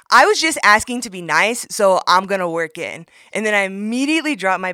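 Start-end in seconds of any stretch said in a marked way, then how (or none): 0.1-3.1 mock angry telling-off. Telling off gym guy.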